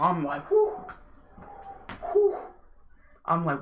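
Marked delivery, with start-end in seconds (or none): 0.5-2.4 nervous breath-out whoo, first one high; nervous exhale. Retold or imitated. Psyching himself up in the car, nervous whoo. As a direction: blow out the nerves. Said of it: "I'm nervous as hell right now".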